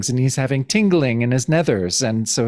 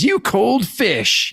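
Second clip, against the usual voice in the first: mock scornful jab; 8 semitones higher, much slower than usual. Diamondback insulting Cap.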